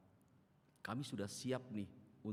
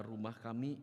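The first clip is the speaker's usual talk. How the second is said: ordinary talk, nothing marked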